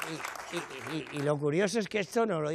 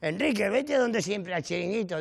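put-on annoyed girlfriend; 6 semitones higher than usual. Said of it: "mi novia se cabrea y me dice".

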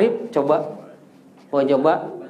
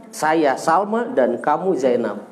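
a slow, even second read of the sentence; slow repeat; 2 semitones lower, slower than usual. Shown as a demonstration. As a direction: repeat it slowly so the student can follow.

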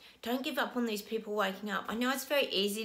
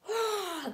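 overwhelmed sigh; 10 semitones higher than usual. Real, not acted. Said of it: "I've gotta take a deep breath".

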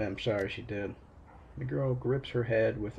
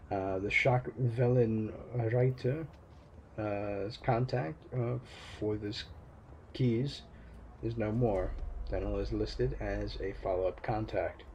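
flat robotic monotone; monotone pitch-shifted voice. Acted. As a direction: read it evenly like a machine. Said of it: "A monotone pitch adjusted voice".

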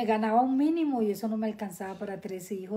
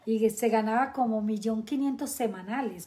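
laughing; 4 dB louder than usual. Real, not acted. Laughing about cheese earnings.

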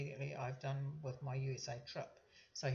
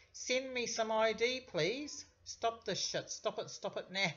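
higher, louder, slow and firm demands; forceful demand; 6 semitones higher, 4 dB louder, slower than usual. Retold or imitated. Daughter confronting the scammer with loud, firm demands. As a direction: hammer the demand home, no give. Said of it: "She's very, really strong".

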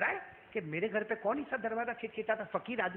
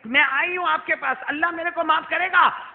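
desperate plea; 8 semitones higher, 9 dB louder than usual. Acted. The woman pleading for mercy.

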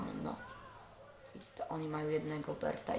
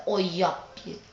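excited shout; 8 dB louder than usual. Real, not acted. Gamer scores a goal.

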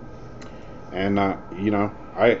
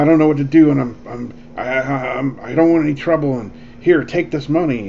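panicked stranger; 5 semitones higher, 3 dB louder than usual. Retold or imitated. Panicked stranger quoted in retold story.

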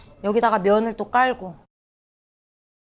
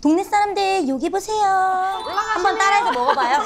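calling out; 7 semitones higher than usual. Pretend. Calling out to the neighborhood.

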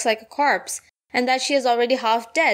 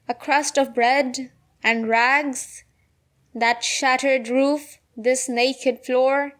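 slow, measured verse with pauses; poem recitation; slower than usual. Acted. Seamstress lists her meagre wages, slow poem recitation. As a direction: recite it slowly, phrase by phrase.

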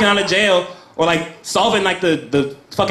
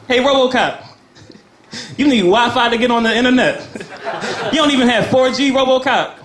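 mocking heckler; 5 semitones higher than usual. Taunting RoboCop in mock voice.

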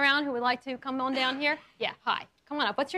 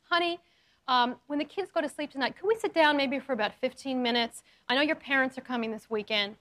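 calm right way; 3 semitones lower than usual. Shown as a demonstration. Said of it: "Here is the right way to get your partner to talk".

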